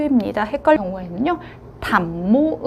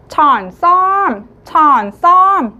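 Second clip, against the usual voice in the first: 천썸 said slowly and loud, 썸 pushed hardest; stress on 썸; 4 semitones higher, 6 dB louder, much slower than usual. Shown as a demonstration. Teacher reviewing the word list, stressing 썸. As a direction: drag 천썸 out and land hard on 썸. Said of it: "두 번째 썸에 강세를".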